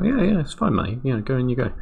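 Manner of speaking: very high, breezy cartoon voice; high silly voice. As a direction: chirp a carefree okay. Voicing their own easy reply.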